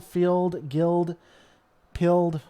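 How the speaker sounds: field, guild, pilled in a Southern twang. Shown as a demonstration. Streamer demos Southern twang on ild words. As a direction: lean into the Southern vowels on each word. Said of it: "oh, and you really hear it".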